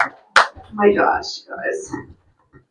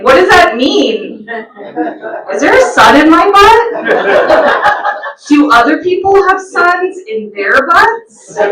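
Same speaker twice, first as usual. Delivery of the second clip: put-on puzzled child; 5 semitones higher than usual.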